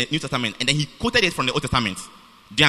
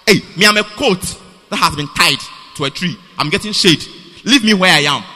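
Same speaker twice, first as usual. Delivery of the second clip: mock stubborn goat; 4 dB louder than usual. Mocking listener tied to tree.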